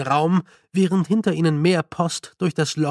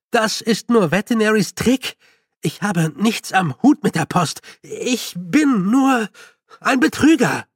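higher, louder denial; louder, higher indignant denial; agitated protest; 6 semitones higher, 4 dB louder than usual. A narrator's reading. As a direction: reject the title heatedly. Feucht protests his role.

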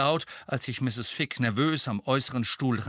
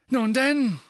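higher, louder lofty prompt; condescending; 13 semitones higher, 6 dB louder than usual. A narrator's reading. Fudge addressing the witness, condescending. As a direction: talk down to her. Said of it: "sagte er herablassend".

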